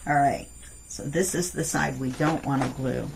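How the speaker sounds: talking around a pencil in the mouth. Real, not acted. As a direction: speak with a pencil between the teeth. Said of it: "I just stuck my pencil in my mouth".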